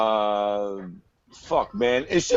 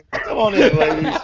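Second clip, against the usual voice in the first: higher, louder, hammed-up playboy greeting; mock Luke welcome; 3 semitones higher, 4 dB louder than usual. Podcaster impersonating the fighter welcoming hired women, hammed-up. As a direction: lay on the charm to the ladies at the door.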